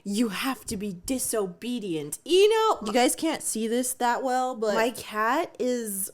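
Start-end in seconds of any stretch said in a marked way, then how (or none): 0.0-2.2 softer, mock-mysterious deep voice; a hint of a hidden voice from the field. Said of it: "a deep voice responds".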